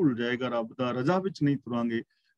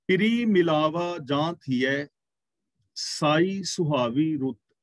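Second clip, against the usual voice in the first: slow, measured recitation of a sacred verse; scripture recitation; slower than usual. Shown as a demonstration. Preacher quoting the Guru to the congregation, slow recitation. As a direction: intone each word of the verse slowly. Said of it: "ਮਹਿਲਾ ਪੰਜਵਾਂ".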